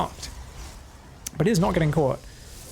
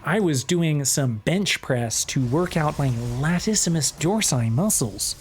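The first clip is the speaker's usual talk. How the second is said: posh overarticulated; slower than usual. Shown as a demonstration. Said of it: "Australians are like".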